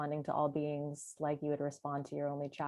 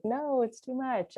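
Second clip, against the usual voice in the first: higher, louder, slow pushback; recoiling refusal; 9 semitones higher, 5 dB louder than usual. Retold or imitated. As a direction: shrink away from it as you say it. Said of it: "my body going in, like".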